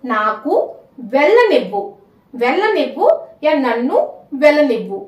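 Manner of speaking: Telugu phrases spaced out with pauses; slow teaching demo. Shown as a demonstration. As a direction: say it slowly for learners to follow. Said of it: "मैं धीरे धीरे बोलूंगी".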